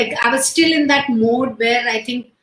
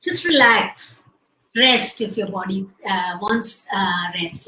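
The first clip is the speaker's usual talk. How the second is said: calm and sweet; 4 semitones lower, slower than usual. Retold or imitated. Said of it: "very calmly and sweetly said".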